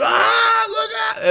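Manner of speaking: very high yelped warning; imitating a warning. Waiter warns diners in a very high voice. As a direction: squeal it way up high. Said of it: "he goes".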